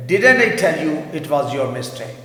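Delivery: teacher reads the example slowly; slow model sentence. Shown as a demonstration. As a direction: spell it out slowly, stressing didn't. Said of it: "میں نے کہا تھا نا یہ تمہاری غلطی ہے".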